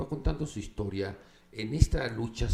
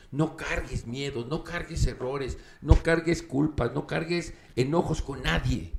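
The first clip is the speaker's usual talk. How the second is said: slow, each no cargues stronger; building emphasis; 3 semitones higher, 4 dB louder than usual. Real, not acted. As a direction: build it line by line to a peak. Moraleja enfática, repetición creciente. (énfasis creciente en cada no cargues)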